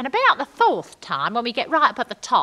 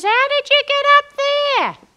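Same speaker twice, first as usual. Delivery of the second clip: high, loud call from below; 10 dB louder than usual. Retold or imitated. Norm yelling up to his wife from the crowd, loud. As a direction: shout it up from the crowd.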